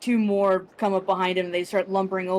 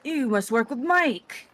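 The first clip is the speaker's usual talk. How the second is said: giant voice; 5 semitones higher, slower than usual. Acted. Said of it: "and he goes".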